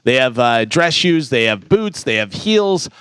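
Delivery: steady sponsor read, then the news. Acted. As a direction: read the ad and weather like a radio newscaster.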